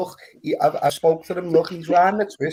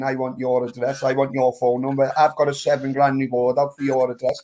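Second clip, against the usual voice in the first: mock troll voice; 5 semitones lower than usual. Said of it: "they wanna start saying".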